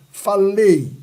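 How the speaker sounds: "Falei" loud on the final E, weak I; E forte. Shown as a demonstration. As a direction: drive into the E of "Falei", I trailing. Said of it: "o E é forte, o I é não". ("Falei" com E forte e I fraco)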